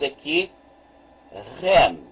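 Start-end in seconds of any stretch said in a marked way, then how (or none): 1.6-2.0 "rem" read as one syllable with initial R sounded. Shown as a demonstration. Teacher reads the syllable for learners, "rem" set apart clearly. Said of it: "se vamos ler, então, esta sílaba".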